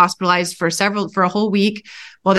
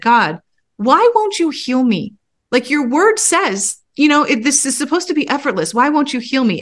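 pleading; 5 semitones higher than usual. Retold or imitated. Pleading with God in driveway.

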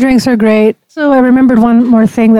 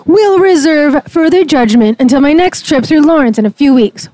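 slightly higher, mock-emphatic review reading; big-font emphasis; 4 semitones higher than usual. Shown as a demonstration. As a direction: read it as if in big type. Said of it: "this is in a big font".

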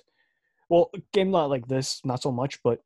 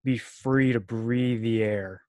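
mock anti-masker. Cohost jokingly plays an anti-masker to his podcast partner, mock-earnest. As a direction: play a pretend anti-mask crank for laughs.

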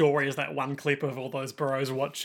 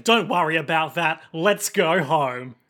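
louder, drawn-out heroic reassurance; acted heroine; 6 dB louder, slower than usual. Podcaster acting out the heroine comforting her friend, louder heroic reassurance. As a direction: play the heroine, firmly projected. Voices a character's reassuring lines.

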